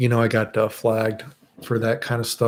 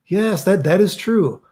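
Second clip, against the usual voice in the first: high, emphatic "yes, that is true"; excited confirmation; 6 semitones higher, slower than usual. Real, not acted. Streamer confirming a viewer's rumor, excitedly. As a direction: confirm it with animated surprise. Confirms the story, then repeats hushed.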